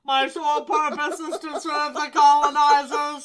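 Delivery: booming robotic villain. Pretend. Voicing the robot's lines.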